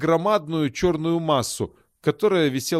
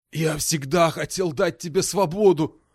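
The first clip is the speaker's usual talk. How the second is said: hoarse. Acted. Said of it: "хрипло сказал Найпал".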